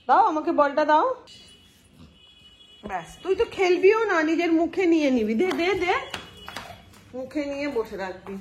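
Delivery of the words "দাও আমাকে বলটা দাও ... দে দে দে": higher, louder, teasing the dog; playful demand. Real, not acted. Playfully demanding the ball back from the dog.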